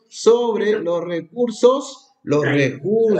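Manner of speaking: drawn out slowly, each word weighted; slow down to underline the key words; slow emphasis. Shown as a demonstration. Teacher slowing down to stress the key term. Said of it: "lo voy a señalar acá, bien claro".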